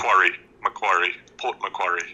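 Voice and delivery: Macquarie said "muh-KWOR-ee"; correcting pronunciation. Shown as a demonstration. Listener correcting the host on Port Macquarie, correcting pronunciation. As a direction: model "Macquarie" with a short, clear ending "-ee". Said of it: "I have to correct".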